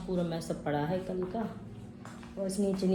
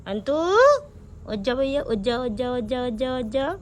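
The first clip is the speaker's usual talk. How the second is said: repeated wake-up call growing louder and higher; calling to wake him; 5 semitones higher, 7 dB louder than usual. Real, not acted. Mother waking her sleeping son, calling louder and louder. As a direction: coax him awake, then call out louder each time.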